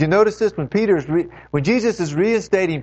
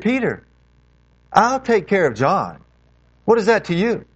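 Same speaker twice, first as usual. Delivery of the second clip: a touch of harsh rebuke, pitched up; mildly stern rebuke to Peter; Jesus lightly voiced, firm and rising; 5 semitones higher than usual. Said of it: "And he says it harshly".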